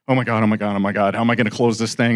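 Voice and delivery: low, rushed, mildly panicked muttering; nervous. Retold or imitated. Buyer panicking to himself about closing the deal, nervous. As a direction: fret under it in a quick low run. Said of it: "I'm all nervous".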